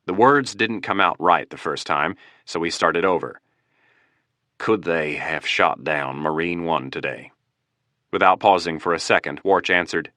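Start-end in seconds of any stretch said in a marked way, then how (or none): 4.6-7.3 nervous. Acted. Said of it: "a nervous President Stevens".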